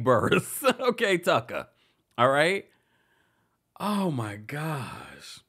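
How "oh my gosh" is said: breathy shocked whisper; whispered aside. Real, not acted. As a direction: whisper it in disbelief.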